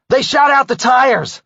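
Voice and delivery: loud high alarmed shout; yelling. Acted. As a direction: cry out the bad news. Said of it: "Lucas yelled".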